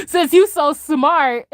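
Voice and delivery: high, slow, cracking up mid-line; laughing through it. Retold or imitated. Streamer repeating Thanos's threat to chat, laughing. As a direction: repeat the threat while giggling.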